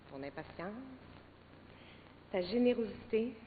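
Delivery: soft, sincere words of love; tender declaration. Real, not acted. Déclaration tendre à Guy. (déclaration tendre et sincère)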